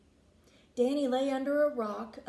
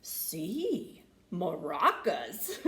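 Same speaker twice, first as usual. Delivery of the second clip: laughing; 6 semitones lower, much slower than usual. A narrator's reading. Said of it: "said the bullfrog with a laugh".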